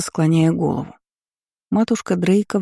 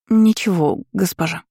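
nervous little maid's reply, pitched up; flustered servant answering her lady; timid babble; 2 semitones higher than usual. A narrator's reading. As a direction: stammer it out timidly. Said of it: "залепетала камеристка".

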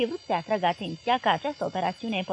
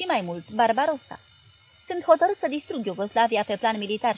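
furious ranting. Acted. Hitler raging at his generals about Yugoslavia. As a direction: pound the threats out in fury. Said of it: "Hitler începu să urle".

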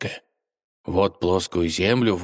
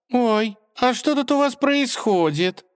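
put-on much higher, slow girlish voice; curious mermaid. A narrator's reading. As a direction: peek in with curiosity. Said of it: "Любопытная русалка".

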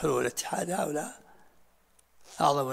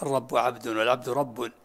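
reciting verse; 4 dB louder than usual. Retold or imitated. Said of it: "كما قال في شعره المعروف".

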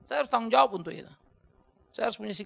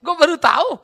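retold apology; 3 semitones higher, 10 dB louder than usual. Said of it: "akhirnya saya bilang".

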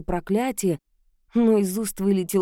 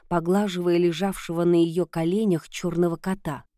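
usual speaking voice

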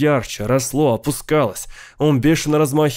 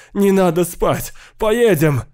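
desperate shout, pitched up; terrible scream; 7 semitones higher, slower than usual. A narrator's reading. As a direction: scream to be taken away now. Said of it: "страшно кричал он".

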